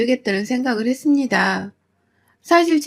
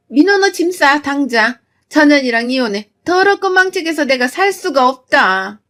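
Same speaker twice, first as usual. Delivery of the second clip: loud, raised scolding; angry order; 4 semitones higher, 3 dB louder than usual. Acted. Mother-in-law ordering her son to divorce, angry. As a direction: command him to leave in disgust.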